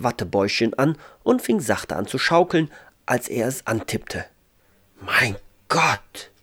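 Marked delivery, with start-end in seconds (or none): 5.0-6.3 understated, halting astonishment; blurted amazement. A narrator's reading. Ralf feels the cloud is real, blurted amazement. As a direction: let it out in awe. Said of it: "stieß Ralf hervor".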